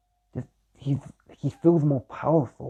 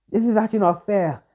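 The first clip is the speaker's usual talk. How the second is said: the second, more anguished take; rising distress; 6 semitones higher than usual. Acted. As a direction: pitch climbs higher, more upset. Yariko upset at Naruto's pain.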